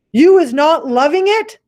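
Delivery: high, loud mock-innocent BFG; innocent question. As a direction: play dumb sweetly. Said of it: "G asked innocently".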